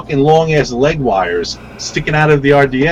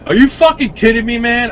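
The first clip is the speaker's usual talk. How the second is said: retold freak-out; 11 semitones higher than usual. Vendor yelling at the customer over the ruined build, high incredulous shout. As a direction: blow up at him in disbelief. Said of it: "seriously flipping out".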